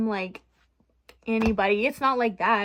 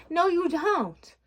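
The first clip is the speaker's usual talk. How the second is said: higher, slow, drawn-out scolding; firm no; 6 semitones higher, much slower than usual. Real, not acted. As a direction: stretch it out like scolding yourself. Scolding her past self.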